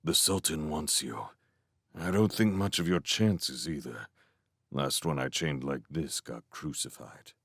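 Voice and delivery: soft, low murmur; murmured aside. A narrator's reading. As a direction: murmur it confidentially to the prisoner. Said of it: "murmured to Abdullah".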